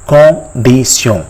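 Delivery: "Condition" slowly as French kon-dee-syon; French pronunciation. Shown as a demonstration. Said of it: "how it is pronounced".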